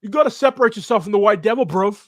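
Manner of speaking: fast, loud mock Brixton accent; high, hurried fake London street preacher; bad British accent. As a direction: rattle it off in a terrible British accent. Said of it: "That is the worst British accent".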